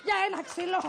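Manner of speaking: loud, high indignant protest; outraged. Acted. Widow protesting the price of the wood, outraged. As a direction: cry out at being overcharged.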